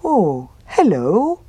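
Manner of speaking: slow, cheerful bear voice; happy bear. Acted. Bear greeting the fox, slow and happy. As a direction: greet him slowly and gladly. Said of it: "said the bear happily".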